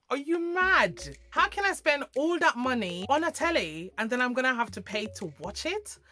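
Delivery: Are you mad? thrown out high and loud; outraged disbelief. Retold or imitated. Hearing about the TV licence, high loud outraged disbelief. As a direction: react as if the idea is absurd. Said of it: "I was like".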